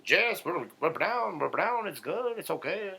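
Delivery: put-on high singsong Asian-accent caricature; hammed-up Asian accent, swooping pitch; mock Asian accent. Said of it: "You sound Asian".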